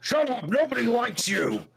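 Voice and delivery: high, loud impatient yell; high, loud yell cutting someone off; Piccolo yelling. Retold or imitated. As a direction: shout him down. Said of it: "then Piccolo yells".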